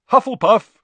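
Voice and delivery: loud, high announcement; shouted proclamation. A narrator's reading. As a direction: shout the verdict to the hall. Hat proclaims house.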